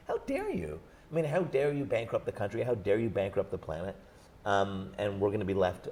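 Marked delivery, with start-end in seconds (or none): 0.1-4.0 put-on channel an indignant young activist, lightly; indignant accusation. Imitating a young activist's indignant accusation to the older generation. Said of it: "standing up and saying".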